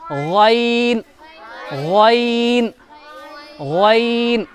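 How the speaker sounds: गैन gargled from the throat; Arabic ghain. Shown as a demonstration. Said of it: "कैसे पढ़ेंगे इसको?".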